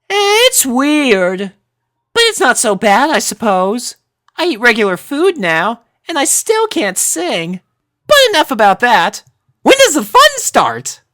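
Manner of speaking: put-on high, eager ditzy girl voice; Sanada. A narrator's reading. Sanada chatting with new friends, high eager ditzy voice.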